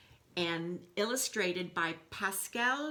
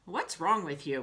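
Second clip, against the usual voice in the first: a louder, gruff mock growl; 5 dB louder than usual. Wolf snapping at the animals who ignore him in a mock growl. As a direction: snap it like a grumpy wolf. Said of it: "growled the wolf".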